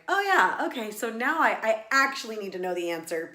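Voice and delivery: an excited lightbulb moment; sudden realization. Retold or imitated. Inner realization, high burst.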